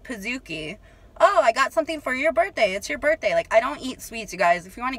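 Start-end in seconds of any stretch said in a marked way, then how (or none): 1.2-3.3 mimicking the guy. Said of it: "the guy presents the Pizookie".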